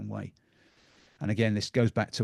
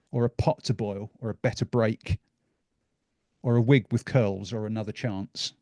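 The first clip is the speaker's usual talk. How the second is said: reading a poem aloud. Acted. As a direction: read it like a children's rhyme to the room. Reads Dr Seuss aloud.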